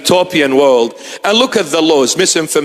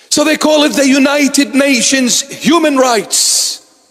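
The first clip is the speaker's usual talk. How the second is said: scornful; 9 semitones higher than usual. Acted. Mocking the UN.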